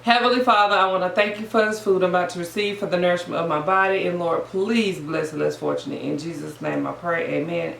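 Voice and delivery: softening, fading prayer before the meal; hushed mealtime grace. Real, not acted. Saying grace.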